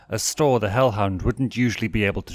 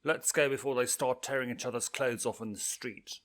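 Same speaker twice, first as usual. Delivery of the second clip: character voice; 5 semitones higher, 6 dB quieter than usual. Acted. Octavia voiced, quieter and higher.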